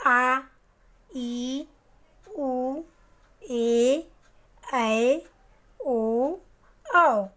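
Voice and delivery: each vowel drawn out, slow; long vowels demo. Shown as a demonstration. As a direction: hold every vowel twice as long. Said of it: "ह्रस्व स्वर से दुगुना समय लगता है".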